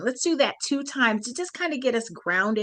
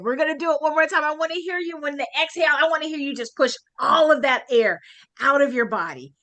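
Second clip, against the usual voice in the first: excited; 6 semitones higher, faster than usual. Real, not acted. Urging group to breathe louder.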